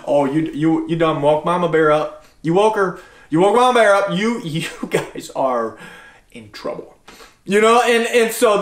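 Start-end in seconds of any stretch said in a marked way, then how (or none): 0.1-5.8 low playful warning trailing to a whisper; teasing warning. Retold or imitated. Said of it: "I'm like". 6.3-6.9 hushed mock threat; breathy whisper of in trouble. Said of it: "I'm like".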